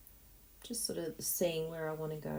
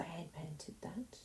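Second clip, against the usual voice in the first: whispered; 13 dB quieter, slower than usual. Pretend. Mock proud reply.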